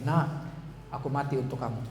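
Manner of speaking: soft, tender reassurance; God's loving voice. Acted. God speaking to a fallen child, soft and tender. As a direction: quietly remind them of the sacrifice. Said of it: "Tuhan bilang begini".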